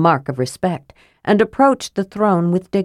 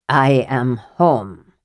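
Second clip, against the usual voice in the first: slow, lower, possessed voice; a lightly voiced stranger inside the dwarf; voice not his own; 5 semitones lower, slower than usual. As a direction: speak as a ghost come home, slowly. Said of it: "in a voice that was not his".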